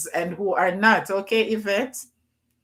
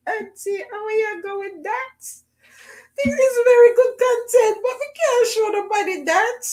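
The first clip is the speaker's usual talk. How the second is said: put-on much higher, whiny young niece voice, crying at the end; imitating her niece; 5 dB louder than usual. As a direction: mimic a teenage niece, half-wailing. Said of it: "my niece was like".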